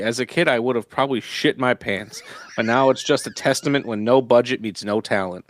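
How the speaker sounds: laughing. Real, not acted. Reads review while laughing.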